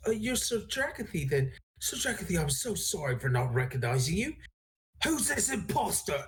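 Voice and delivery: lightly voiced flustered, apologetic character; apologize, then turn in puzzled alarm; confused. Galazar apologizing to the knight, then challenging an imposter, confused. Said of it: "more confused than terrified".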